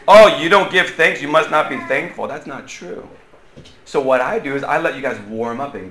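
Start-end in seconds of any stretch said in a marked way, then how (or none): 0.1-2.3 mildly sarcastic guilt trip. Shown as a demonstration. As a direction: chide with mock disappointment. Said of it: "never say to people sarcastically".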